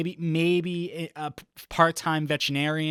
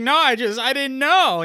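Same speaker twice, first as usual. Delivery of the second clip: 1 flustered woman; 10 semitones higher, 9 dB louder than usual. Retold or imitated. Startled woman explains.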